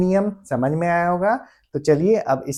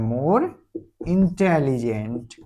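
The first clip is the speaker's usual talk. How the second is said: slow dictation; 3 semitones lower, 4 dB quieter, much slower than usual. Shown as a demonstration. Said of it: "क्या बनेगा?".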